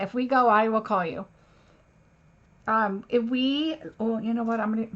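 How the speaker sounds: talking while chewing gum. Real, not acted. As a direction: chew gum through the words. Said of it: "gotta get rid of my gum".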